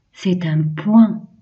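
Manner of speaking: slow, deliberate teacher model; slow model phrase. Shown as a demonstration. Teacher models a phrase for children, slow and clear. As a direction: say it slowly for kids to copy. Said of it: "On répète".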